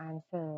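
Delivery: "answer" with the W left silent. Shown as a demonstration. Teacher explaining English spelling, "answer" with silent W. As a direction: say "answer" as AN-ser, no W sound. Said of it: "W บ่ออกเสียง".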